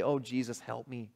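hushed, simple bedside prayer; whisper-soft plea like a child at bedtime; soft child's prayer. Shown as a demonstration. Preacher showing kids a soft bedside prayer.

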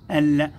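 ال with the L sounded and held; pronounced lam. Shown as a demonstration. Teacher showing the written and spoken letter, pronounced lam. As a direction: let the L in ال ring clearly. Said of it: "وكتبت ونطقت نقول".

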